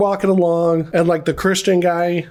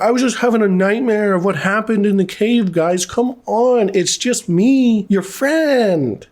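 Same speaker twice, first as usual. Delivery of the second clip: imitated coaxing, higher and slower toward the end; mock pleading; 3 semitones higher than usual. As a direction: plead innocence, stretching the last appeal. Voicing suspect pleading with his companions.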